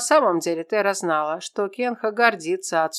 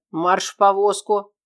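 stern order; 6 dB louder than usual. Acted. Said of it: "услышала Тера приказ кузнеца".

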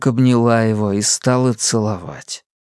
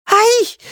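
high sharp yelp; shriek of pain; 3 dB louder than usual. A narrator's reading. Linda shrieks when the boy hugs her sore neck. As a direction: yelp as if touched on a wound. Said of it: "взвизгнула Линда".

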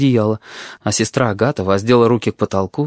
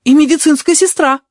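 offended nurse; 5 dB louder than usual. A narrator's reading. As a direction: draw herself up and proclaim it. Nurse insists.

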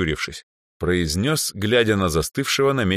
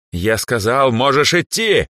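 higher, louder furious yell; angry shout; 8 semitones higher, 6 dB louder than usual. Acted. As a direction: snap it out in anger. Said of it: "гневно выкрикнул Андре". (гневный выкрик)

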